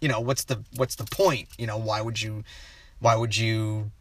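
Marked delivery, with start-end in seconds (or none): none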